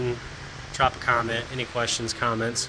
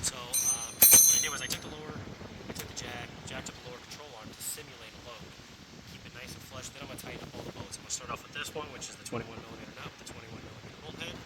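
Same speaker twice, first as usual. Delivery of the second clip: into a fan; 12 dB quieter, faster than usual. Real, not acted. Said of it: "Excuse the fan noise for the rest of this".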